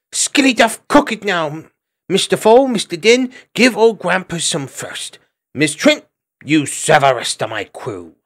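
very high, piping commands; a tiny cook bossing his crew about; bossy little squirrel. A narrator's reading. Chugger gives orders.

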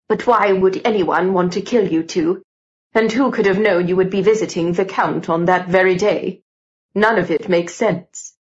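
lightly voiced gentleman questioning; a hint of a baffled older colleague; puzzled Mister George.

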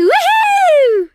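high gleeful woohoo; thrilled shout of delight; excited whoop. Acted. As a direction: whoop with joy as you soar. Exhilarated flying bark.

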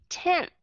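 tenth with the tongue tip between the teeth; model pronunciation. Shown as a demonstration. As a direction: say tenth with a dental N and th. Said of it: "bắt buộc phải cho chót lưỡi cho hai hàm răng". (đọc tenth, chót lưỡi giữa hai hàm răng)

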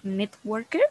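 networker with a French R; R francesa. Shown as a demonstration. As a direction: give the R in "networker" a French sound. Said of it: "ese sonido como a la R". ("networker" con la R a la francesa)

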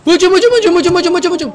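loud, high-pitched rallying shout; rally the troops and charge, all out; battle charge cry. Pretend. Leading the squad into attack, shouted charge.

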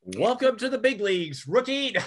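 high, teasing put-on welcome; mock taunt. Veteran to an outmatched rookie, mock taunting. Host acts taunt to helpless opponent.

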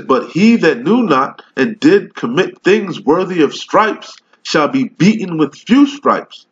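slow, solemn King James recital; scripture reading. Acted. Street preacher reads the Bible to his video audience, solemn slow recital. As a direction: read the verse like preaching it from the pulpit.

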